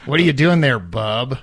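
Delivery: lightly voiced comic-book tough guy; Wolverine impression. Wolverine teasing Worf, lightly acted. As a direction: play at being a gruff mutant. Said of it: "Worf and, uh, Wolverine hit it off".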